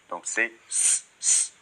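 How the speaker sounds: S hissed as an unvoiced s, not z; voiceless s sound demo. Shown as a demonstration. Teacher shows the student the voiceless S, hissed softly. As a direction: sound out S as a soft unvoiced hiss. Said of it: "d'un S, euh, sourd".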